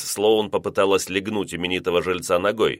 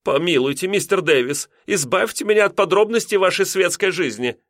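much higher, scandalized landlady; flustered protest; 10 semitones higher than usual. A narrator's reading. Landlady embarrassed by lodger's talk, high protest. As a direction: beg him to stop, scandalized.

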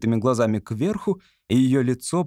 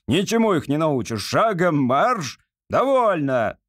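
barked drill command; 4 semitones higher, slower than usual. Acted. Corporal continues drilling.

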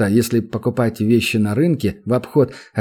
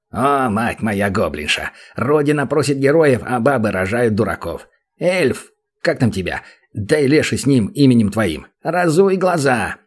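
exasperated goblin. Acted. Goblin rants at the elf.

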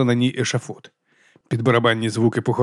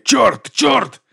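much higher, louder rising curses; shocked curse; 11 semitones higher, 5 dB louder than usual. Acted. Watkins, horrified by the stage murder, curses louder and higher. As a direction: fling out the curses higher each time.

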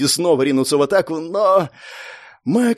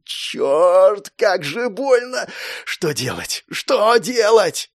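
panic; 5 semitones higher, much slower than usual. Acted. Panicked inner voice.

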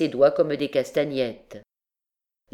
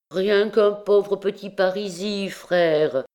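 pleading; 5 semitones higher, 3 dB louder than usual. Acted. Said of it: "le suppliant Jehan".

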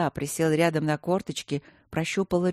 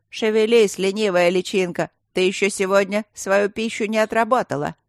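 shouting; 3 semitones higher, 6 dB louder than usual. Acted. Innkeeper yells at the maid.

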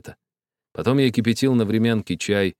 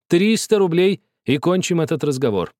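haggling dealer; 9 semitones higher, 4 dB louder than usual. A narrator's reading. Bargaining game counteroffer.

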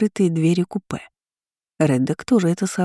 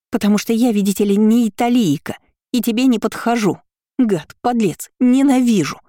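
high, louder tearful tirade building to a shout on ненавижу; furious outburst; 4 semitones higher, 3 dB louder than usual. A narrator's reading. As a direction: hurl it at him, near tears. Mari's tearful jealous outburst. (гневная тирада сквозь слёзы, громче и выше)

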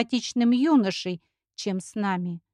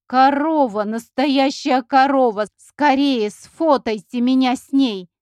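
excited shouting; 3 semitones higher, 7 dB louder, slower than usual. Acted. Thrilled at seeing a cow.

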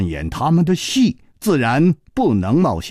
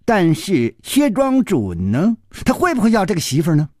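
lightly voiced challenging boy; 7 semitones higher than usual. Boy challenging his friend about the match, high voice. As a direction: draw out the doubt, then rush.

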